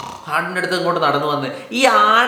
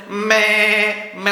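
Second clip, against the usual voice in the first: goat bleat; much slower than usual. Shown as a demonstration. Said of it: "ഒന്ന് ഉണ്ടാക്കി നോക്കിയ sound".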